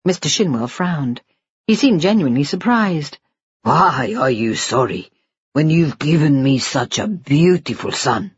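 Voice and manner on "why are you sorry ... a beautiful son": lightly lowered voice of a doting father; tender father. Acted. Father promising his baby son a future, tender. Husband gently surprised.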